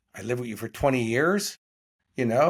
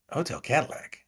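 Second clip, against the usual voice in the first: puzzled echo; 3 semitones higher, 3 dB quieter than usual. Retold or imitated. Actor friend querying the odd hotel name, mildly puzzled. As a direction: echo it back as a puzzled question.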